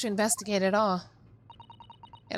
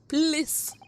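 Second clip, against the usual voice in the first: higher please; 7 semitones higher than usual. Acted. Repeats the request more insistently.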